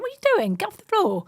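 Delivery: high, loud, teasing disbelief; amused scolding. Retold or imitated. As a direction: call out as if he's messing about. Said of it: "I'm laughing at him, going".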